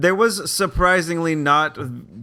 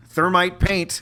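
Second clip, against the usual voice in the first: laughing through the words; 6 semitones higher, slower than usual. Real, not acted. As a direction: say it while laughing. Laughing repeat of a joke.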